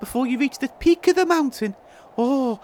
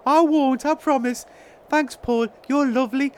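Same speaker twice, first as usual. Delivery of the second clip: lightly voiced little goblin, grateful; Toodle Pip. Goblin thanking Paul, lightly put-on voice. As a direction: answer as a touched small creature.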